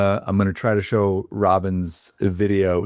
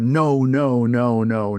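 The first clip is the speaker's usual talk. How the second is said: mock rant; 4 semitones higher, slower than usual. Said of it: "was railing against this".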